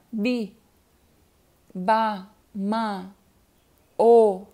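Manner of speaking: "bi", "ba", "ma", "o", each alone with a long gap; isolated syllables. Shown as a demonstration. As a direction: drop single syllables one at a time. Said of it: "Coisas isoladas, coisas separadas".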